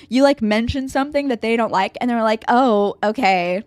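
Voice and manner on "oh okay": slow, drawn-out judgmental reply; judgmental "oh, okay". Retold or imitated. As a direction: stretch it slowly, faintly disapproving. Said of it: "in, like, that judgmental way".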